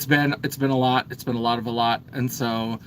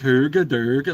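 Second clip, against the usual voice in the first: a bit louder mock Swedish Chef gibberish; 4 dB louder than usual. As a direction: babble like a hammed-up Swedish Chef. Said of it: "like I'm the Swedish chef".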